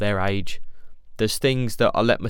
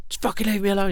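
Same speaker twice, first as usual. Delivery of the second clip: snapped retort; 10 semitones higher, faster than usual. Retold or imitated. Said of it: "I'll be like".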